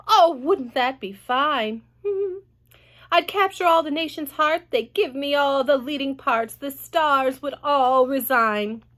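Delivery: lightly voiced vain aunt; Aunt Sponge. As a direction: swoon over her own fame. Aunt Sponge dreams of stardom.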